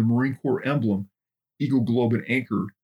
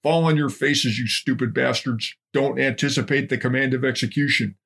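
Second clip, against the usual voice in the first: scolding drill sergeant; angry drill instructor; 2 semitones higher than usual. Acted. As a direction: chew them out like a DI.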